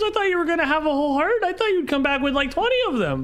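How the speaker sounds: put-on high-pitched child voice, astonished; excitable nine-year-old, high and chattering; eager little girl. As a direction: pile up the questions like a let-down kid.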